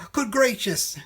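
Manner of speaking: high, loud startled bird voice; gasping surprise. A narrator's reading. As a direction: gasp it out, caught off guard. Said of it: "gasped Macy".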